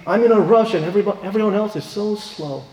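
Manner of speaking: retold impatient venting; upset. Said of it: "And he gets upset".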